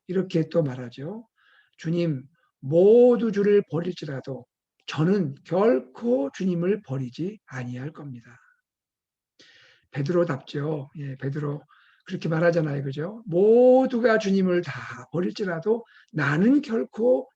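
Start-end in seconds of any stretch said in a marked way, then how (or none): 1.8-8.4 slow, drawn-out solemn pledge; acted-out boastful promise; confident vow. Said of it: "스스로 장담합니다". 13.3-17.3 louder, slow emphatic pledge; acted-out overconfident disciple; boastful vow. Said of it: "스스로 장담합니다".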